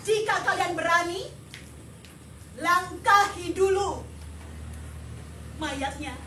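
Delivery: over my dead body, played big; mock dramatic dare. Parent daring the audience to step over her, hammed up.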